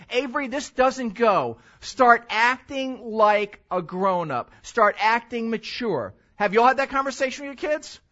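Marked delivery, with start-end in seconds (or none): 0.1-6.1 firm parent. Retold or imitated. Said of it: "it is my job ... to say".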